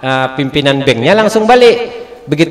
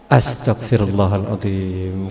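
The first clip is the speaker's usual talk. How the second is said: dismayed groan; 8 semitones lower, 8 dB quieter, slower than usual. Retold or imitated. Husband regrets the money.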